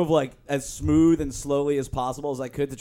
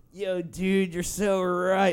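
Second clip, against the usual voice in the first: stoner talk; 3 semitones higher, much slower than usual. Retold or imitated. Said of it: "he talked in stone talk".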